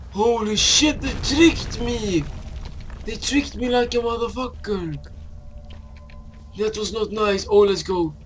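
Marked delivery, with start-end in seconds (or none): 0.1-5.0 shocked outcry. Real, not acted. Tricked by game.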